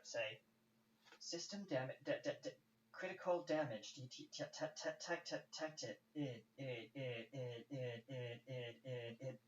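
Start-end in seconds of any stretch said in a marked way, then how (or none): 1.2-9.4 crackly malfunctioning robot voice, stuttering; a broken ship computer glitching out; glitchy robot voice. Acted. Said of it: "very crackly and very glitchy, uh, robot, uh, voice of your ship".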